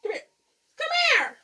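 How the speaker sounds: high sing-song call to a pet; cat-calling voice. Real, not acted.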